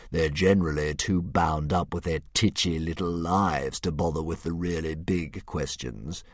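slow, low, superior dragon voice; a smug philosopher monster; pompous dragon. Acted.

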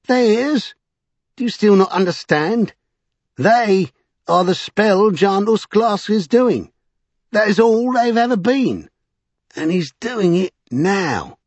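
high, scornful, drawn-out tirade; scoffing Vinculus. A narrator's reading. Vinculus deriding the magicians, high and scoffing. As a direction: hammer it home with high-pitched disbelief. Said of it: "scoffed Vinculus".

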